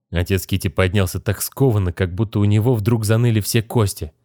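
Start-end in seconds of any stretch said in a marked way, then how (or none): none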